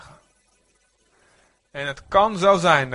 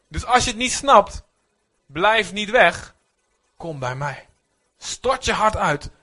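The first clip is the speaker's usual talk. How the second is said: higher, louder, slow pleading call; God calling out; 5 semitones higher, 5 dB louder, slower than usual. Acted. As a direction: call the doubter back. God roept de twijfelaar. (luide smekende oproep)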